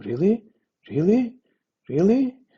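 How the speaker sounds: high, loud, interested "really".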